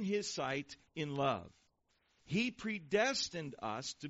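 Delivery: slow, deliberate Bible reading; measured pulpit reading with drawn-out key words; scripture reading. Acted. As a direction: read it out solemnly, phrase by phrase. Reads scripture aloud to congregation.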